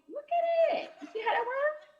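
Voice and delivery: high, laughing delivery; tickled by her own joke. Real, not acted. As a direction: laugh through the punchline. Delighted at own punchline.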